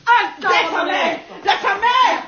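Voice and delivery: pained cries, pushing them off; struggling protest. Acted. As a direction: fight them off with each word. Prisoner struggling against being restrained.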